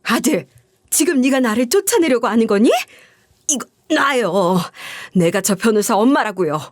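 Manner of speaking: lightly acted hysterical mother; mock furious ranting. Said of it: "전보다 더 크게 윽박지르면서 이런 식으로 난동을 피웠죠".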